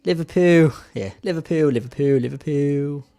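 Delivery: practising a Scouse accent. Shown as a demonstration. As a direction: try the club name in Scouse, over and over. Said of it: "speak in the Scouse accent".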